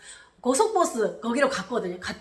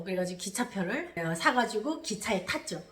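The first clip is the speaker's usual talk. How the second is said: ordinary delivery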